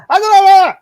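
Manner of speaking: very high, loud squeal; hammed-up squeal of a foreign warrior; shrieking enemy. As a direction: screech it out like a panicked fighter. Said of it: "He's like".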